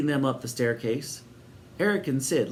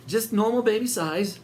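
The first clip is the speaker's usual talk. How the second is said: high, strained squeak; 9 semitones higher, 3 dB louder than usual. A narrator's reading. Eric straining under the heavy pram, squeaking. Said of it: "squeaked Eric".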